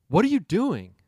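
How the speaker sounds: mock angry. The speaker confronts the woman.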